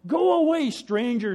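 high, loud screamed warning. Acted. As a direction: yell at the stranger to leave. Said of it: "screamed the brother".

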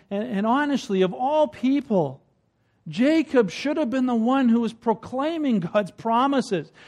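usual speaking voice

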